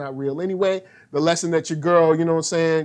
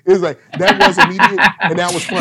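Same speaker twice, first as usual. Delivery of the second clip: laughing; 6 dB louder, faster than usual. Real, not acted. Laughing while recounting.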